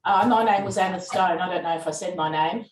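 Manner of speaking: muffled through a face mask. Real, not acted. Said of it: "you have to wear the face mask".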